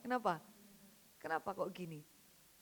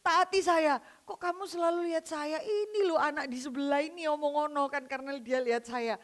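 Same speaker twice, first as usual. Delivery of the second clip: angry guard; 3 semitones higher, 3 dB louder than usual. Retold or imitated. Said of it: "Terus dia marah".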